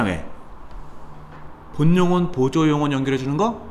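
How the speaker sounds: ordinary talk, nothing marked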